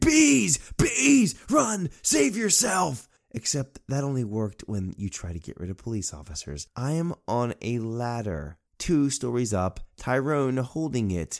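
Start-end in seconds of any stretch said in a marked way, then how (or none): 0.0-3.1 high, long, drawn-out screaming. Retelling a swarm of bees coming at them, screaming like Tommy Boy. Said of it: "I started screaming like Tommy Boy".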